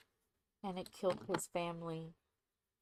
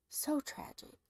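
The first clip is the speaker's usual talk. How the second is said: whispered So tragic., hushed; 8 semitones higher than usual. Real, not acted. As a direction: let So tragic. fall to a breathy hush. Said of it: "whispered repetition".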